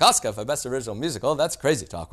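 a hint of lofty, dismissive bigwig, fast; imitating pompous board. Board of Governors dismissing the category, mock lofty. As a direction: brush it off like a studio head. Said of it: "they all talk like this".

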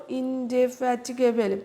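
ইনডেফ্যাটিগেবল said slowly, broken into syllables; teacher modelling ইনডেফ্যাটিগেবল for students to repeat. Shown as a demonstration. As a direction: spell out ইনডেফ্যাটিগেবল by sounding each part. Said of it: "উচ্চারণ করো".

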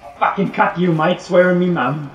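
hammed-up Cockney British threat; mock British accent. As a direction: play a cheeky British thug accent. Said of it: "Are we really doing British accents".

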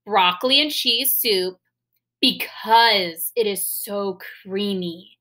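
put-on slow, clear model sentence for kids; slow example sentence. Shown as a demonstration. Teacher reading an example sentence to children, slow and clear. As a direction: read it out slowly and plainly. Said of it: "So if I said".

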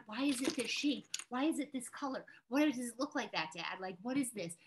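lightly voiced kid pestering a parent; curious child. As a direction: fire off questions like an inquisitive child. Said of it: "they're very curious about everything".

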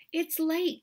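a hint of a small squeaking mouse; lightly squeaky mouse. A narrator's reading. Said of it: "Mouse squeaks".

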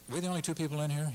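high, quick bewildered question; puzzled question. Retold or imitated. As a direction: rattle it off, baffled. Joke patron questions bartender.

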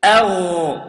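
أغ with a heavy throaty ghain; strong ghain. Shown as a demonstration. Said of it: "say it after me".

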